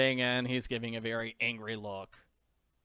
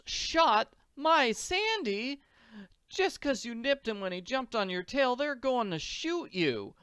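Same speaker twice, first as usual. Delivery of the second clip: put-on much higher, distressed young girl voice; horrified; 11 semitones higher than usual. A narrator's reading. Annie fearing her dog will be shot, horrified. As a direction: plead in high-pitched, tearful horror. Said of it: "Annie reacts with horror".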